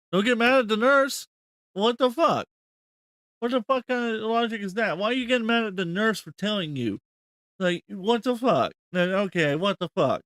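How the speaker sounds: high-pitched, incredulous outburst; can't believe what you just heard, pitched right up; exasperated. Real, not acted. Exasperated reaction to clip.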